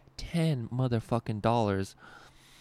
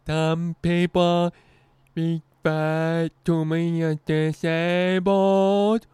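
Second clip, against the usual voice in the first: higher, louder, very slow deadpan impression; impression of disabled comic; 8 semitones higher, 9 dB louder, much slower than usual. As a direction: drag every word out slowly, landing the punchline. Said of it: "I'm gonna do his impression again".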